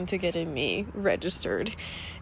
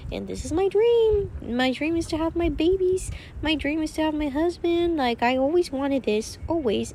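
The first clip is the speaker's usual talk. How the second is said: emotional; 7 semitones higher, 3 dB louder than usual. Real, not acted. Emotional about her family life.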